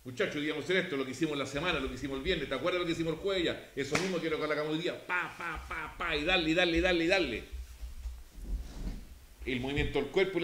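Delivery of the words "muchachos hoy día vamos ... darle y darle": firm coach. Shown as a demonstration. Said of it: "Tienes que ser fuerte, constante".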